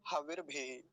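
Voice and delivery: हविर भेही with a short इ, not stretched; short vowel demo. Shown as a demonstration. Teacher shows the short इकार to students, clipped. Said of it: "तो लंबा नहीं खींचेंगे".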